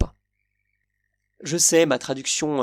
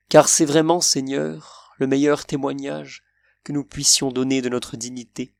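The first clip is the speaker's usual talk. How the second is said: poem recital; 3 semitones lower than usual. Acted. Reciting his favourite Baudelaire verses to viewers, solemn recital. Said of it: "des vers que j'aime beaucoup dans Les Phares".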